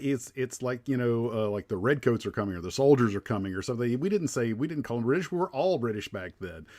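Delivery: a hint of a scandalised old soldier correcting people; exasperated Ichabod Crane. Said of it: "he's like".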